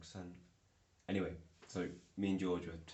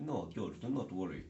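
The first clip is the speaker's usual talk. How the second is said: put-on Russian accent; jokey fake Russian accent; 4 dB louder than usual. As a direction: reassure firmly in a mock Russian accent. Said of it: "I was doing this accent".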